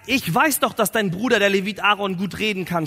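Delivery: lightly acted angry outburst; mildly acted divine anger; angry, wrathful God. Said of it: "dann wird Gott wütend und zornig".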